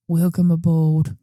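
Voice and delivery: slow, mock-calm killer line; killer's greeting. Retelling a movie killer greeting his victim, slow and menacing. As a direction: lean on it slowly like a smug villain. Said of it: "he turns to her and goes".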